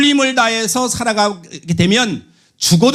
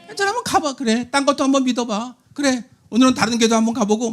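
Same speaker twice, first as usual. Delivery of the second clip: higher, softer, careless permissive voice; 가벼운 방임; 4 semitones higher, 3 dB quieter than usual. Retold or imitated. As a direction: breezily wave it off. (대충 허락하는 가벼운 말투)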